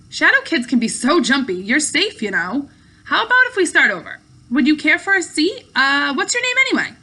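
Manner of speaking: put-on light, breezy young girl; chatty and a little condescending; playful girl voice. Jen reassuring Luke, offering a seat.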